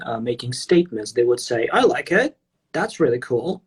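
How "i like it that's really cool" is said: "I like it" and "That's really cool" lifted at the end like questions; uptalk. Retold or imitated. Russian speaker imitating Australian friends' statements, uptalk. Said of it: "raise their intonation when it comes to even".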